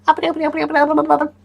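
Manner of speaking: very high chirping alien syllables; squeaky alien chatter; alien talk. Pretend. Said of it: "the aliens are gonna be like".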